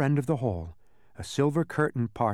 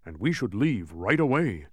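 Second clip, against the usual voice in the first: advising dog. A narrator's reading. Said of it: "advised Tok".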